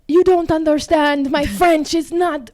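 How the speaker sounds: high, loud pleading mimicry; French boy. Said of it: "French boy".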